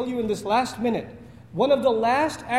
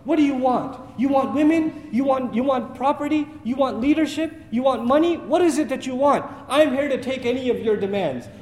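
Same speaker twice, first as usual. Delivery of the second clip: mock barking insults; 2 semitones higher than usual. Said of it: "starts barking like a dog".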